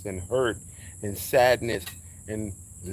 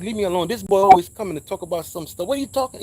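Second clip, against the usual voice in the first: higher, louder complaining mom; exasperated mother; 7 semitones higher, 8 dB louder, faster than usual. Retold or imitated. Mother waving away her son's strange talk, exasperated. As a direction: imitate a fed-up mother brushing him off.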